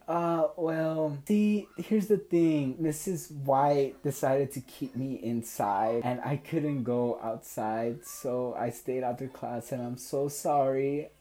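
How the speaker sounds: high, whimpering imitation of a girl; imitated tearful apology. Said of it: "started to literally cry on the spot".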